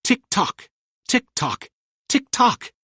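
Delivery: high, mock ticking sing-song; ticking clock. A narrator's reading. Narrator mimics the crocodile's clock, ticking sing-song. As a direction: tick it out like a clock. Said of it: "he heard a familiar sound".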